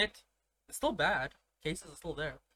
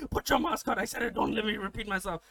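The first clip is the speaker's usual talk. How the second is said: retold scolding order; 3 semitones higher than usual. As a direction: imitate an indignant uncle giving orders. Acted uncle scolding back.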